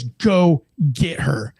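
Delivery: slow, weighted mock-angry command; retold angry order. Mad partner repeating his order to chase her, slow and stern. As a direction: stretch out each word, fed up. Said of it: "he's visibly mad at me".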